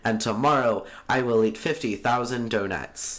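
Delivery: 1920s radio broadcaster. Pretend. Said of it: "You sound like a radio broadcaster from nineteen twenty".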